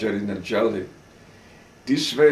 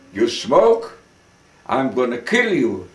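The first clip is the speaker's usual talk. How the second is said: mock holler; 4 dB louder than usual. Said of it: "he started to holler high".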